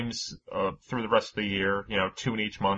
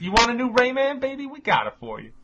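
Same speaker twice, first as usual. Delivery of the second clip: higher, sing-song crooning at Nintendo; smooth-talking suitor; 12 semitones higher, 4 dB louder than usual. Retold or imitated. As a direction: woo Nintendo like a cheesy flirt, pitch up. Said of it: "Ubisoft was just like".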